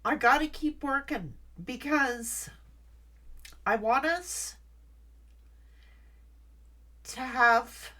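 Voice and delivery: fighting tears, vowing it anyway; real tears under a firm vow; tearful resolve. Real, not acted. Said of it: "Had to pull myself together".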